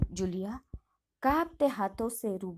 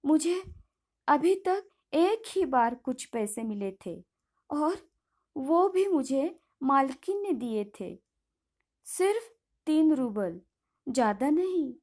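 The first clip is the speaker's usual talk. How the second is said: trembling voice; 2 semitones higher than usual. Acted. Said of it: "कांपती आवाज में Julia कहती है".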